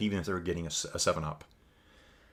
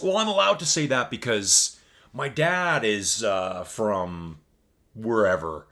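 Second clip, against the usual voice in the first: a lightly mocking, slightly louder smug voice; mocking other people; 4 dB louder, slower than usual. Streamer parodies people who excuse their remarks, mildly mocking. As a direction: poke fun at the excuse people give. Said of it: "when people say this".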